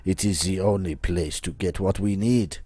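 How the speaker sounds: put-on dramatic French-accented persuader. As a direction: recruit them in a theatrical French accent. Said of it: "my accent".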